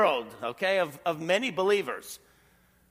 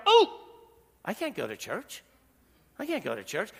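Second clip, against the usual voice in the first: mock whiny Christian. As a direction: play a lazy believer making excuses, hammed-up. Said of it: "a Christian stubs their toe".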